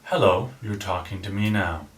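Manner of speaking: low, calm and reassuring; smooth radio host; late-night DJ voice. Shown as a demonstration. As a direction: settle them down gently. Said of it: "start off with your F M D J voice".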